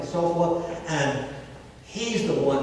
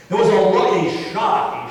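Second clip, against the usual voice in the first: raised, higher mock shout; retold shout; 5 semitones higher, 8 dB louder than usual. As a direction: call it out loud across the fort. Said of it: "he shouted".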